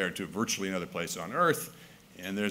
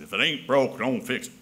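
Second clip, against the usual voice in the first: mock Southern accent; 2 semitones higher, 4 dB louder than usual. Shown as a demonstration. Speaker redoes the folk saying with a hint of Southern accent. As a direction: say it like a down-home Southern farmer. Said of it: "give that a Southern accent".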